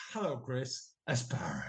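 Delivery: starts loud, fades into a whisper; loud then whisper. Retold or imitated. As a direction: begin loud, taper the name away. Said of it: "started off loud and into a whisper".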